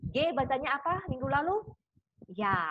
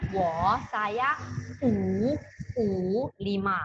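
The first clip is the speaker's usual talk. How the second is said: wo and U said louder to show the contrast; 4 dB louder, much slower than usual. Shown as a demonstration. Teacher contrasts wo and U for students, louder. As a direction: make the difference clear. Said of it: "Perhatikan ya perbedaannya ya".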